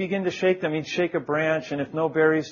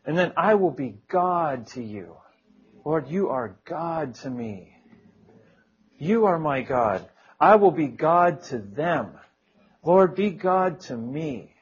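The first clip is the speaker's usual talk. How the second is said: measured prayer, verse and response in turn; heartfelt prayer. Retold or imitated. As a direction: pray it deliberately, letting each phrase settle. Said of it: "I prayed".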